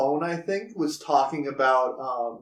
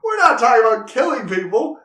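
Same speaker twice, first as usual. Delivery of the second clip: matter-of-fact; 7 semitones higher, 5 dB louder than usual. Retold or imitated. Acted defensive quote of the men.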